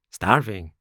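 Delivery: loud one-word beggar's echo; cat parroting its partner. A narrator's reading. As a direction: echo it pitifully. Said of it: "repeated the cat".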